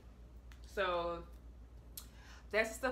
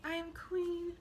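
high, strained and close to tears; emotional; 9 semitones higher, slower than usual. Real, not acted. Reading her aunt's book again, near tears. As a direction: voice catching on the last word. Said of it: "Feel a little emotional".

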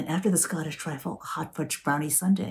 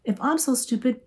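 mocking son's retort; 8 semitones higher than usual.

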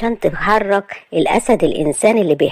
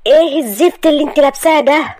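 angry; 8 semitones higher than usual. Acted. Asad scolding Maria about her dress, angrily. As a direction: snap at her over the dress. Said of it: "راح قال لها بغضب".

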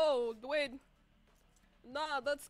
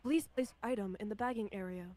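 self checkout prompts; 5 semitones lower than usual. Pretend. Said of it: "did someone just scan, like, an item".

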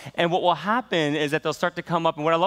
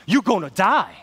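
high, loud preacher's call; 10 semitones higher, 6 dB louder, slower than usual. Retold or imitated. Pastor warning the students, loud preaching. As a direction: hammer it at the children like a preacher. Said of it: "He'll just say".

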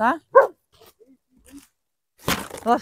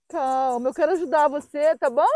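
gentle reassurance. Real, not acted. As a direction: soothe a scared dog gently. Reassuring the dog, first take. (tom calmo, tranquilizando a cachorrinha)

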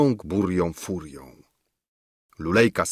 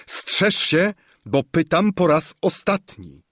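stern warning; 8 semitones higher than usual. A narrator's reading. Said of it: "wykrzyknęła z nieopisaną mocą".

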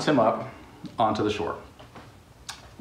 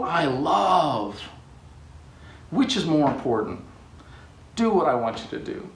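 stern God; 4 semitones higher than usual. Acted. God rebuking Jonah.

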